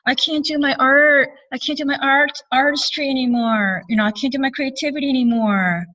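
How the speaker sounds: a retold woman fretting she can't create; upset. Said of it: "she's very upset".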